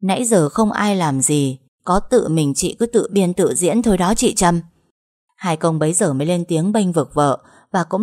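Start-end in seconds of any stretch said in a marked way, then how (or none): 0.0-4.6 loud and cold. Acted. Cúc exposing Trâm before the family, loud scorn. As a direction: call her act out to everyone. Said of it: "cười nhạt nói lớn".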